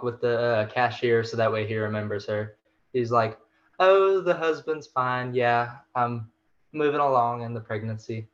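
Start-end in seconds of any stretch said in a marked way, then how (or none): 3.8-8.3 a hint of a breezy housewife; breezy small talk. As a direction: play the casual shopper. Wife chatting with cashier.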